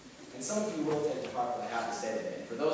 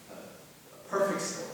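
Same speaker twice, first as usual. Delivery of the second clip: awed repeat; 5 semitones higher, 5 dB quieter, slower than usual. Acted. Repeats the score to himself.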